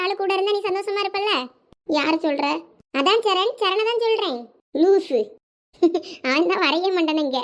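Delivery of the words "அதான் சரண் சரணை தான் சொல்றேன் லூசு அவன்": giggle, then speak; laughing. Acted. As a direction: break into a small laugh at the name before answering. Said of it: "அவன் பேரை சொன்ன உடனே சிரிப்பு தான்". (பெயரைக் கேட்டதும் சிரித்துக்கொண்டே)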